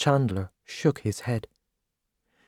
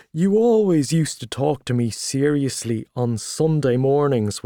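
hearty Gallagher; 5 dB louder than usual. Acted. Gallagher greeting old friend Tommy in the pub, loud and hearty. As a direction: boom out the welcome like a showy journalist.

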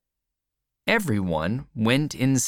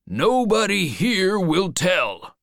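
lightly acted, raised high voice; assuring old man; 8 semitones higher, 4 dB louder than usual. A narrator's reading. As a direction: call out a promise of secrecy.

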